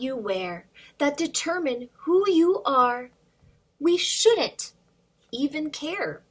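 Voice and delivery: put-on lively read-aloud for little kids; storybook reading. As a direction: read the rhyme to children, bouncing along. Reads picture book to kids.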